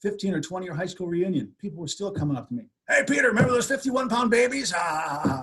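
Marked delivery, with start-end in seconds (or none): 2.9-4.7 sing-song tease. Retold or imitated. Classmates teasing at reunion.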